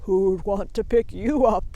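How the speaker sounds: mocking sheep. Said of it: "laughing his bleat of a laugh".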